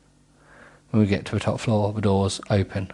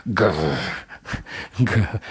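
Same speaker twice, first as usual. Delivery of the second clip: playful growl. Pretend. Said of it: "He's doing a lot of growling".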